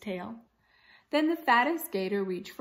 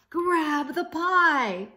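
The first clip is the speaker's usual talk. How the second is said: slow, higher and much louder call; urgent cry; 7 semitones higher, 7 dB louder, slower than usual. Acted. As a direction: urge her to grab it now, loud. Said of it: "he cried".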